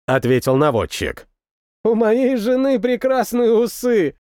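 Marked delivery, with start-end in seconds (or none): 1.8-4.2 joking. A narrator's reading. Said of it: "пошутил мехвод".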